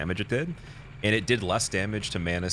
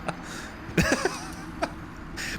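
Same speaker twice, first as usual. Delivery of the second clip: breathy high-pitched laugh. Real, not acted. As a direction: break into airy laughter. Laughing at own story.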